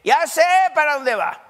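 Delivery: excited ah-ha, I know where you're going; sudden realization. Pretend. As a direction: act out a listener who just got it, laughing. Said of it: "a ver si alguien de ustedes dice".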